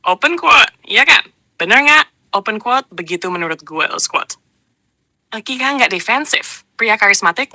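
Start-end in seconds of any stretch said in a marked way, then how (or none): 0.9-2.1 high-pitched, approval-seeking "iya kan? Bener nggak?"; rising intonation. Shown as a demonstration. Showing how a man seeking approval asks, rising intonation. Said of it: "Nada naik". 2.9-3.9 softer, settled fall on "begitu menurut gue"; falling intonation. Shown as a demonstration. Showing how a confident man states an opinion, falling intonation. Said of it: "nada turun keyakinan".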